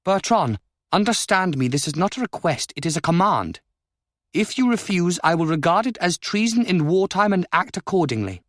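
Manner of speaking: stern order from a ruler; commanding countess. A narrator's reading. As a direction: issue a royal command.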